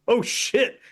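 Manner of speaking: hammed-up "uh-oh" panic at ordinary volume; mock panic. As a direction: imitate startled paramedics, pitch jumping up. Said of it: "they, like, panic".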